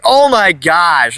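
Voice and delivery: put-on slow, drawn-out "Oh my gosh" full of teen attitude. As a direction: stretch "Oh my gosh" out, rolling your eyes. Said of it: "in an attitude way".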